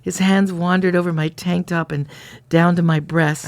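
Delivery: lightly dramatized diary narration; diary reading. A narrator's reading. Reading the diary to a co-host, lightly dramatized storytelling. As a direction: read it out like a steamy romance story.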